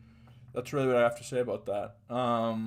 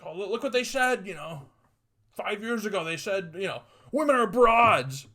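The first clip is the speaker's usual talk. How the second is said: much higher, gossipy tattletale voice; mock outraged tweet digger; 8 semitones higher, 4 dB louder than usual. Online crowd digging up a five-year-old tweet, high mocking tattletale. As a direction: play a gleeful snitch pointing at old tweets.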